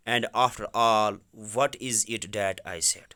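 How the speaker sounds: very slow, word-by-word reading; slow reading aloud. Shown as a demonstration. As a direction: read it slowly for the students. Teacher reads English text aloud. (آہستہ آہستہ پڑھنا)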